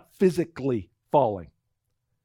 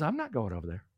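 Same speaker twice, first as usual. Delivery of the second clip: firm refusal; 7 semitones lower, 9 dB quieter, faster than usual. Retold or imitated. Wife refuses at the fence.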